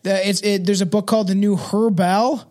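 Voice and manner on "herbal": "Herbal" with a sounded H, HER-bal; spelling pronunciation. Shown as a demonstration. Reader naming the book, HER-bal as written. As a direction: say "Herbal" in two full syllables, as spelt. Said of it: "It's like H E R B A L".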